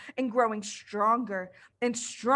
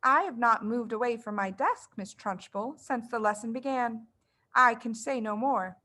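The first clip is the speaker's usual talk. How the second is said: calm. Acted. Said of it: "said with total calmness".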